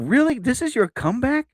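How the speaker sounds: high-pitched, disbelieving questions; acting out scornful disbelief; retold incredulity. Retells incredulous thought at her comeback.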